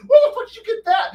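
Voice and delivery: very high, loud, fast startled yell; shocked shout. Pretend. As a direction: blurt it out in shock. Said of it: "They're like".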